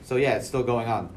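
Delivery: muffled behind a mask; talking through a mask; through a face mask. Real, not acted. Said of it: "I'm wearing a mask right now".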